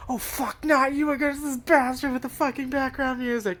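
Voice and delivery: mock-panicked frog spotting the boss music; frog's panicked rant. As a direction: rattle it off like a flustered frog. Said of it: "and the frog's like".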